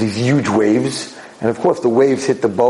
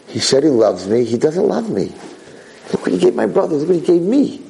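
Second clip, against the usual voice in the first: hurt complaint; 5 semitones higher than usual. Acted. Hurt son complaining about father's gifts.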